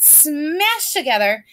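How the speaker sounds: SMASHED stretched out slowly; drawn-out emphasis. Shown as a demonstration. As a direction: drag out "smashed" for effect. Teacher acting out words smashing together.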